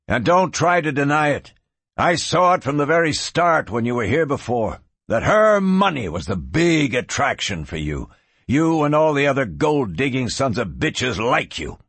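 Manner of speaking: heated rancher's tirade; angry accusation. Acted. Brother accuses gunman of chasing her money, angry. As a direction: press the charge with punched key words.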